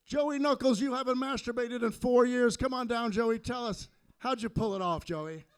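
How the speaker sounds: loud, high announcer call; mock game show host calling a contestant down; hammed-up TV host announcing.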